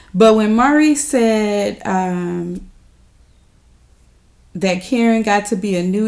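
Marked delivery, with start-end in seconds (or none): none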